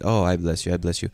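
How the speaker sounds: imitating a droning, repetitive prayer; mock churchgoer chanting on autopilot; mock rote praying. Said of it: "There are Christians that".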